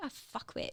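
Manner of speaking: furious, angry whispered cursing. Retelling own reaction after the mental health team left: imitating own angry remark. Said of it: "I was so mad".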